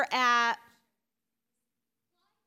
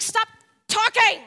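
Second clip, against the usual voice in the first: voicing God; 6 semitones higher, 7 dB louder, slower than usual. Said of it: "he's like".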